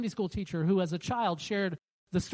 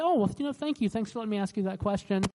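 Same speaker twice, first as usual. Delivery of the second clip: polite deflection. Shown as a demonstration. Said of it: "be kind, be respectful, say".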